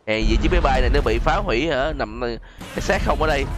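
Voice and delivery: ordinary talk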